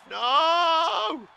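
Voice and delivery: loud high shout of no; real loud no; anguished shout. Real, not acted. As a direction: yell it out in despair. Game loss moment.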